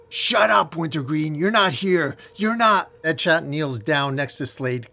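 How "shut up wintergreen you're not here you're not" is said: high, loud, hammed-up yelling; acted scream. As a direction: shout down a voice in your head. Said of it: "As Slade screams out loud".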